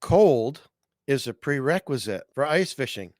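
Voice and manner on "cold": Cold punched loud; stress on Cold. Shown as a demonstration. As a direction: hit the word Cold hard and loud. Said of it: "straighten out people on that".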